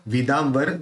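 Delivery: विदाम्बर with a clear m before the b; म उच्चारण. Shown as a demonstration. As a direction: sound the dot in विदाम्बर as m. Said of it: "तो यहाँ क्या निकला". (विदाम्बर में म की ध्वनि)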